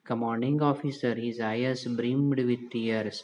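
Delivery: slow, careful reread of the sentence; slow story reading. Shown as a demonstration. Teacher rereading the line for students, slow and careful. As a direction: read each English word out slowly again. Same line read again slowly.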